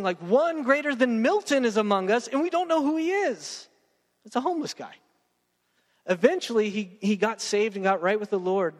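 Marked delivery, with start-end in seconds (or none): 0.2-3.7 an editor's awed praise, pitched up at the end; awed editor quote. Retold or imitated. Editor raving about the poet, lightly awed. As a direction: rave about an unknown genius. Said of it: "remarked as saying".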